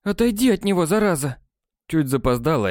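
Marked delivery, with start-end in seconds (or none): 0.0-1.4 barking. A narrator's reading. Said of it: "рявкнула Генриетта".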